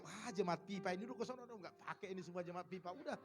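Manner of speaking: a mild mock verdict building up; voicing God again. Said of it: "Oh, ini lagi".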